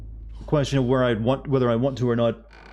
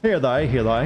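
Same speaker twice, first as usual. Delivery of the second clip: put-on old English accent. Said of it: "A very old English accent".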